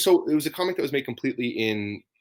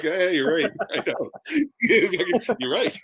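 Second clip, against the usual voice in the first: mock old person reply; 10 semitones higher than usual. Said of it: "That's what I'll say".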